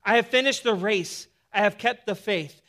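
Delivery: loud, measured I fought the good fight; emphatic list. Acted. Paul listing his life's work, loud and emphatic. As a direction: hammer each claim home. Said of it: "emphatic in the way that he gives this list".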